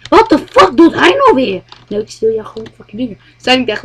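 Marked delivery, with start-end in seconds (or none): 0.1-1.6 her puzzled thought. Retold or imitated. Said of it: "Maar zal zij denken".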